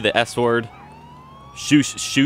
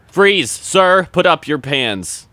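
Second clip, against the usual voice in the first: loud, higher freeze; cop shout; 6 semitones higher, 5 dB louder, much slower than usual. Pretend. Officer shouting at the armed suspect, loud.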